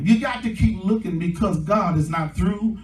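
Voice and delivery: rousing sermon delivery with stretched key words; preaching. Real, not acted. Preacher promising the congregation a new start, preaching with drive.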